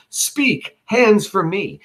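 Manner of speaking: high sharp cry of a stabber; hammed-up battle cry; mock scream. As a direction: shout it out as Casca. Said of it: "Casca screams".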